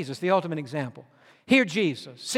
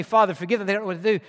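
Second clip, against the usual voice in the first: gentle forgiveness; much faster than usual. Retold or imitated. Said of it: "Jesus and Stephen to say".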